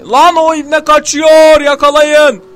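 loud, high, slow call to grab him; rally the team, loudly; urgent shout. Real, not acted. Gamer urging teammates to catch an escaping enemy, shout.

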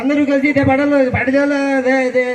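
a light hint of a film star's voice; mildly imitated star addressing his old classmates; Balakrishna impression. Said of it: "Balakrishna గారి voice ఎలా ఉంటుంది?". (బాలకృష్ణ గారిలా తేలికపాటి అనుకరణ)

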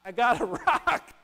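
mock-dejected Charlie Brown, hammed up; disappointed Charlie Brown. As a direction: whine it like a let-down boy with a rock. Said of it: "He gets".

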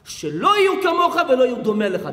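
mock exasperation. Questioner begs there be none like Hillel, mock exasperated. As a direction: burst out fast, fed up in fun.

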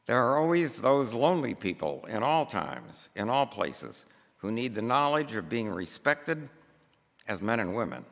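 measured, emphatic pulpit reading; formal read-aloud. Acted. Preacher reads a book passage to the congregation, measured formal reading. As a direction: read it out deliberately, phrase by phrase.

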